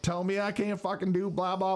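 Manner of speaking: high, mock Zimbabwe accent, cursing back; a loose Zimbabwe accent telling him off. Activist in a Zimbabwe accent cursing the doorman. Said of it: "straight up Zimbabwe fucking accent".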